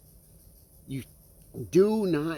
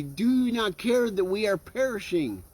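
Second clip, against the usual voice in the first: higher-pitched, mildly pleading question; acted complaint to God, without raised volume; crying out to God; 5 semitones higher than usual. Believers in life's storm to God, mildly crying out. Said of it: "we cry out and say".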